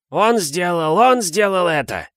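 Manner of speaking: blurted accusation, high-pitched outburst; Филч. A narrator's reading. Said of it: "выпалил Филч". (выпалить обвинение высоким голосом)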